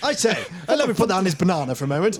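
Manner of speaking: mock-genteel ape; gentleman gorilla. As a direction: voice a politely surprised gorilla.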